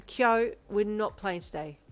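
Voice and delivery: slow, patient repeat; patient teacher. Acted. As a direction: spell it out calmly for one child. Teacher repeating to one child.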